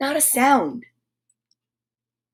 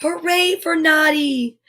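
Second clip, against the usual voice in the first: cheering; 4 semitones higher than usual. Acted. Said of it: "shouted all the toys".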